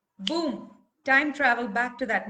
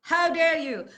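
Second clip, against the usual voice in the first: higher, louder hurt outcry; indignant; 5 semitones higher, 6 dB louder than usual. Shown as a demonstration. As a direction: accuse with rising outrage. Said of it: "angry and indignant".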